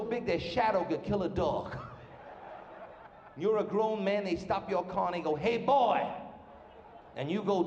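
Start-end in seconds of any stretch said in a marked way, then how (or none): 5.3-6.1 mock Alabama trooper hailing a driver, pitched up; hammed-up Southern lawman; Southern highway patrolman. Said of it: "Highway patrolmen".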